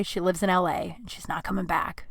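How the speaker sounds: soft whisper inside the quote; whispering Adam telling the rival straight; whispered aside. Retold or imitated. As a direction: drop to a whisper for the hard truth. Adam's honest talk to rival.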